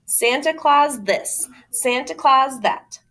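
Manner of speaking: mock her belief; dismissive mockery. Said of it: "he tore it off and said".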